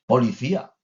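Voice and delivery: put-on toddler voice. Small child calling out the police sign to mum. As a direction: shout it out like a proud toddler.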